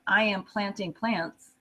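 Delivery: slow and careful; slow teacher demo; slow model sentence. Shown as a demonstration. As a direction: draw the example out. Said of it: "if I really want to say".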